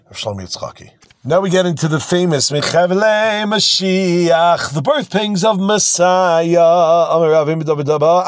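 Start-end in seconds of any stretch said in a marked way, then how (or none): 1.3-8.3 high, long drawn-out words, like a herald; slow, raised, theatrical proclamation; grand announcement. Real, not acted. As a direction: announce it with sweeping drama, stretching each key word. Announces the famous passage grandly.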